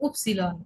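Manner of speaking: উপসিলন said as oop-see-lon, stress on the first syllable; German letter name. Shown as a demonstration. Teacher tells Bengali students the German name উপসিলন. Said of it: "Y কে বলা হয়".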